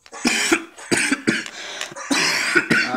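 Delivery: staged coughing fit; fake dying cough. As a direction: splutter as if collapsing. Fakes collapse again.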